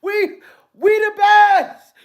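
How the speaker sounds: high, loud mock yell of a famous DJ; hammed-up DJ boast; DJ shout. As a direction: belt the catchphrase like a hype man. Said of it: "Talking about".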